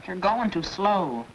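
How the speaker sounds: ordinary talk, nothing marked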